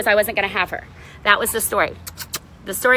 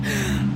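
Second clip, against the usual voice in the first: frightened gasp; 6 dB quieter than usual. Retold or imitated. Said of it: "I was like".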